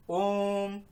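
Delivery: ओम held long like a chant, the vowel stretched; drawn-out om. Shown as a demonstration. Teacher showing students a long ओम, drawn out. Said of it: "आप लोगों ने देखा होगा ओम".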